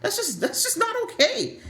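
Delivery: high-pitched mock scold, "Yo" up front; hammed-up high bro voice calling out a foul. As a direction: play a guy defending his buddy, pitched well up. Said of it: "I'm just like".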